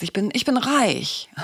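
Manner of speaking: mildly emphatic, slowed self-affirmation; acted pep talk with mild force. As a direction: insist on it, stretching the words. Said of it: "sagst du es vielleicht noch lauter".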